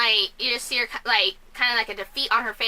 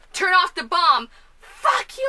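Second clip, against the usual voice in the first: acted standoff; 5 semitones higher, 3 dB louder, slower than usual. Acts out the movie's standoff.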